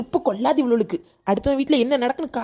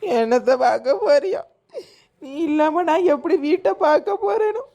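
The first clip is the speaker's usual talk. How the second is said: mock lament. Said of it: "நடிக்காத டி".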